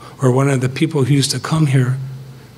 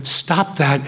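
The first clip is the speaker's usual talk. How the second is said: firm, scolding correction; stern rebuke; 3 semitones higher than usual. Shown as a demonstration. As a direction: tell them off sharply, like a father. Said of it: "That's a rebuke".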